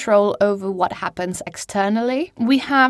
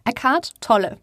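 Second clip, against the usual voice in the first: said with an English accent; anglicised English-accented name; 2 semitones higher than usual. Shown as a demonstration. Speaker catches herself saying the German name, English accent. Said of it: "saying it with an English accent".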